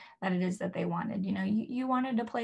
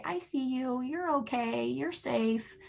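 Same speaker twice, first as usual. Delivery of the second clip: put-on reassuring baby talk; 3 semitones higher than usual. Shown as a demonstration. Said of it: "you can say".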